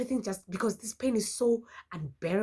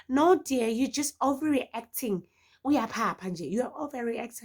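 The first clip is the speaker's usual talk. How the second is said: dismissive nurse; 7 semitones higher, 6 dB louder than usual. Retold or imitated. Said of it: "It's like".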